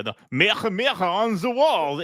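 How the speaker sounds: lightly put-on Israeli accent, throaty consonants; mock Israeli accent. Mocking the actress's fairy-tale line, hammed Israeli accent. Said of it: "she even sounds Israeli".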